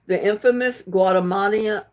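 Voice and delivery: Guatemala muddled, ending like "mah-nee"; careful but botched Guatemala; tongue-twisted. Real, not acted. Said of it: "keep getting my tongue twisted around".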